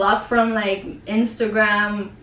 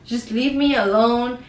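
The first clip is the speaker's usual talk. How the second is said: mildly exasperated retelling, pitched up at the start; retold angry outburst; 2 semitones higher than usual. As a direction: replay telling someone off, fed up but not shouting. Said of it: "I was so mad".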